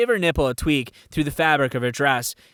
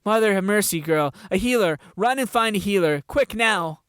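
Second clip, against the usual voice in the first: desperate guard; 6 semitones higher than usual. Acted. Bleeding guard urges her.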